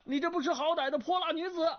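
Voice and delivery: high, fast indignant scolding; loud scolding. A narrator's reading. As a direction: hurl the insult at her. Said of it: "段誉大声骂道". (高声快速的怒骂)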